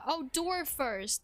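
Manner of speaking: realization. Real, not acted. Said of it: "That's what you meant".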